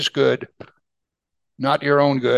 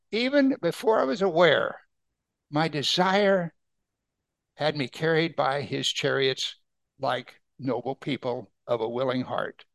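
scripture reading. Acted. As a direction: start lifted and let it fade to a hush. Reads the verse, fading softly.

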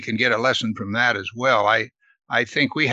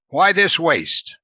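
mock indignation; 5 semitones higher, much slower than usual. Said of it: "Can you imagine that?".

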